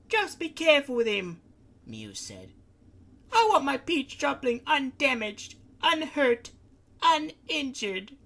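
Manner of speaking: anxious Miu. Acted. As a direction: fuss over her precious one. Miu voiced, very high.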